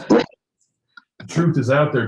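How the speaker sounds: slow, hushed, mysterious agent line; a light take on the FBI agent, drawn out; Fox Mulder impression. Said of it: "sounds an awful lot like Fox Mulder".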